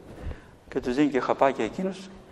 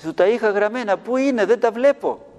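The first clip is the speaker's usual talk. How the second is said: devil speaking through her; 6 semitones higher, 3 dB louder than usual. Retold or imitated. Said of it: "Άρχισε να μιλάει ο διάβολος τώρα από μέσα της".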